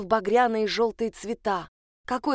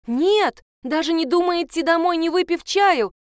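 high, loud desperate cry; desperate exclamation; 7 semitones higher, 4 dB louder than usual. A narrator's reading. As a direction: cry out, begging her to stay. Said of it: "воскликнула Энн в отчаянии". (отчаянное громкое восклицание)

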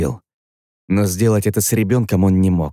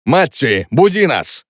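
lightly voiced commanding man, raised pitch; urgent command to leave; Zak's order; 5 semitones higher, slower than usual. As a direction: snap the order at Matti. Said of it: "приказал Зак".

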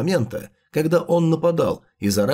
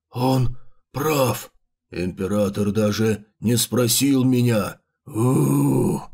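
a light undead moan; moaning chimera voice; 4 semitones lower, slower than usual. Acted. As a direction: groan it out like a wounded monster.

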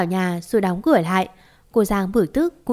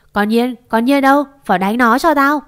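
louder, urgent acted call; calling for help; 3 semitones higher, 5 dB louder than usual. Mother-in-law calling her daughter-in-law for help, urgent shout. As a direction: summon backup in the middle of a fight. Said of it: "mồm méo sạch kêu cứu".

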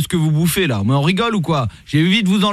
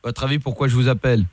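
lightly voiced lower police commissioner; stern police officer; 4 semitones lower than usual. Host posing as police commissioner calling the rapper, stern. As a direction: play a stern cop on the phone. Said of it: "Je suis le commissaire Latour".

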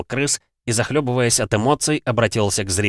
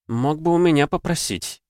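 purring; 7 semitones higher than usual. Acted. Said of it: "промурлыкала брюнетка".

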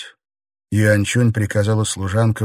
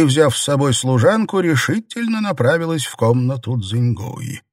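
ordinary delivery, nothing marked

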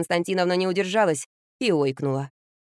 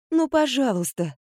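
pleading; 6 semitones higher, slower than usual. Acted. Mother begging her daughter.

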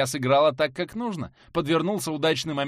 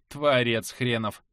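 contemptuous sneer; 2 semitones lower, slower than usual. Acted. Heroine mocking the shaman.

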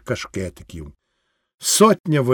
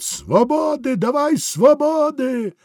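much higher, drawn-out cry for freedom; crowd's demand; 11 semitones higher, slower than usual. Acted. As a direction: plead and demand at once.

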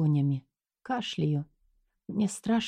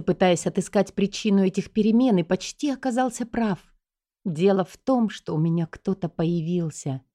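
ordinary delivery

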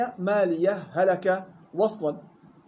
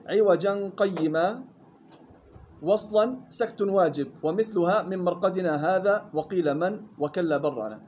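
slow measured chant of the verse; poem recitation; slower than usual. Acted. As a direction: recite the teaching poem slowly, line by line. (إنشاد متن بتأنٍ)

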